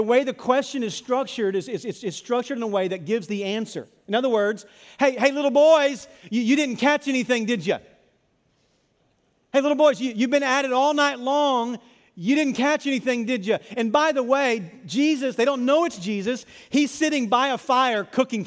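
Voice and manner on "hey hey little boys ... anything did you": teasing call. Acted. Preacher voices Jesus needling the fishermen, teasing call. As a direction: call out tauntingly, dropping on the tag question.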